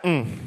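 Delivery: low, knowing "mm"; closed-lip warning hum. Shown as a demonstration. Signalling friends that Judas walked in, closed-lip warning hum. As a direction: hum it low without parting the lips. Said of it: "without parting my lips. I say stuff like".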